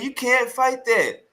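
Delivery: high, slow, whiny mocking of his complaint; mock crying whine. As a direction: whimper the words like a crybaby being teased. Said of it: "Now he crying".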